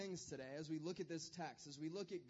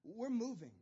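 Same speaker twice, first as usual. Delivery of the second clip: higher, excited husband announcing news; Abraham to wife; 5 semitones higher, 3 dB louder than usual. Retold or imitated. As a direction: break the news to his wife eagerly. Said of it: "he's like".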